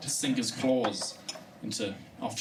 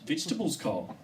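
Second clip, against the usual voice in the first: incredulous echo; faster than usual. Retold or imitated. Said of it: "You mean plants?".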